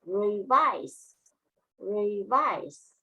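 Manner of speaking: "revise" with the weight on VISE; stress on second syllable. Shown as a demonstration. Teacher models a new word for students, "revise" stressed on VISE. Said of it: "The main stress is on the second syllable".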